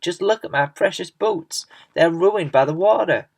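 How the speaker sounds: a vain bug lamenting his precious boots; whining centipede. A narrator's reading. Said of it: "cried the centipede".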